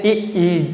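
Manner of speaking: ई, ई said softly and stretched with tongue toward the palate; soft palatal demo. Shown as a demonstration. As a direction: breathe out a soft drawn ई twice. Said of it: "तालु जो आप बोल सकते हैं". (धीमी आवाज़ में खिंचा हुआ ई)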